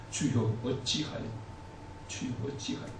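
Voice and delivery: 낮게 속삭이듯 탄식하며. Acted. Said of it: "이런 탄식이 나오지 않습니까". (괴로운 성도가 하나님께, 속삭이는 탄식)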